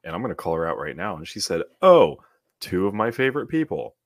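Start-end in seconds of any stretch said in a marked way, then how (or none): 1.8-3.9 high, loud gushing imitation; hammed-up delight, starting on a big "Oh"; mock gushing. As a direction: exaggerate her delighted greeting. Retelling a friend's gushing comment.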